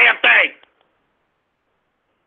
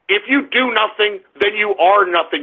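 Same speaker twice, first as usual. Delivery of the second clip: lower, restrained delivery; low contained anger; 7 semitones lower than usual. Real, not acted. Host lectures idle young listeners, low and angry. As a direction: state it grimly, holding the anger down. First take of repeated angry maxim.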